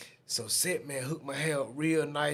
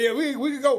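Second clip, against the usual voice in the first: higher, louder, eager to leave; a scared yes, let's go; nervous; 10 semitones higher, 7 dB louder, faster than usual. Retold or imitated. Scared friend urging Bird to leave, nervous. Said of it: "I'm scared now".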